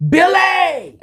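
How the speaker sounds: high, loud shout of his name; mock yell. Mama yelling at her son over the phone. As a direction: call him out like an angry mama. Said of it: "She yells at me".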